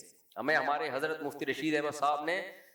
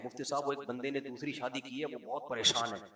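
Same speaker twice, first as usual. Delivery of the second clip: mock hushed report; 3 semitones lower, 5 dB quieter than usual. Imitating Rafi bhai's report.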